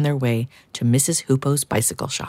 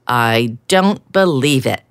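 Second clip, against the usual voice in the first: louder, slow disbelief; astonished; 5 dB louder, slower than usual. Acted. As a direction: let the amazement sink in. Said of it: "said Duck in astonishment".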